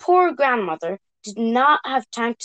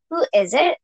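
calling out; 3 semitones higher than usual. Acted. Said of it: "he called".

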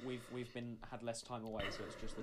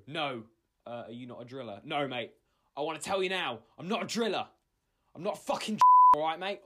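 indignant denial; 3 semitones higher, 12 dB louder than usual. Pretend. Isaac denies being a driller.

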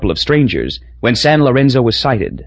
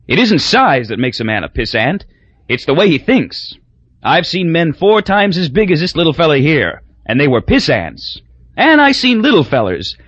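a lightly voiced drunk loudmouth, pitched higher; drunk blustering Crosby; 4 semitones higher than usual. Drunk Crosby lecturing the bar on piss ants, lightly voiced.

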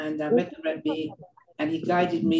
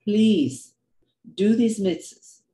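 gently emphatic plea, higher and slow; pleading; 4 semitones higher, 5 dB louder, much slower than usual. Retold or imitated. God urging people to do good deeds, pleading. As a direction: plead slowly, voice lifted and a little louder. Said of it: "He's pleading with us".

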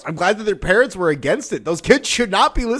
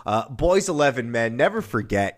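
mock solemn; 7 semitones lower, 4 dB quieter than usual.

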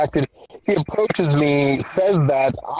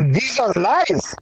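higher-pitched bad Russian accent, accusing; crappy Russian accent; 7 semitones higher than usual. Gertie disputing her supposed father's story, in a crappy Russian accent. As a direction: do a clumsy Russian accent in protest. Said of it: "a very crappy white man's version of".

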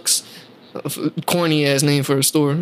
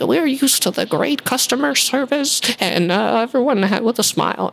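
mock old lady; 6 semitones higher than usual. Worker mocks the old lady calling management, mild mock voice. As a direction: mimic a prim old customer snitching. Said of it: "these old people".

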